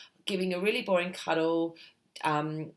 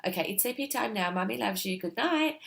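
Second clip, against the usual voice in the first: sleepy time mantra; 4 semitones higher than usual. Shown as a demonstration. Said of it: "a little mantra such as".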